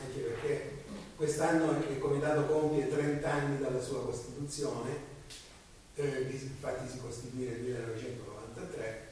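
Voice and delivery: raspy voice with a head cold; hoarse from a cold. Real, not acted. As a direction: talk through a cold, hoarse. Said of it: "Scusate la voce, ma ho un po' di raffreddore".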